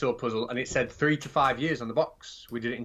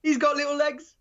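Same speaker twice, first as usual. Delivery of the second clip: much higher, louder squeak; squeaky voice; 12 semitones higher, 5 dB louder than usual. Pretend. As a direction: squeak it like a tiny creature. Punchline in a squeaky voice.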